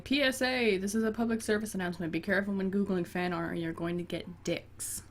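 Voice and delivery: lightly announced, like a PSA; mock public service announcement. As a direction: give a tongue-in-cheek official warning. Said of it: "I was just imagining me saying".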